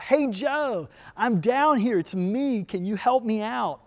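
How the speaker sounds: half-hearted yell up to a friend; mild calling out. Acted. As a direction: hail a passing friend, pitch lifted at the start. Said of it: "he yells out".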